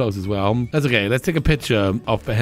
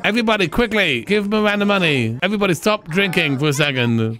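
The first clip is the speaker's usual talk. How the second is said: urgent appeal; 8 semitones higher than usual. Pretend. Calls out to bar crowd.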